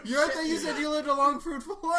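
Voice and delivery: high, loud laughing. Real, not acted. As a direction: squeal the words through laughter. Host laughing at the guest.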